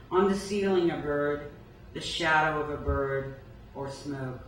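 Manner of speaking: measured recital, phrase by phrase; poetry reading. Acted. Poet reading White Center as the last poem, measured recital. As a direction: give each image its own phrase and pause.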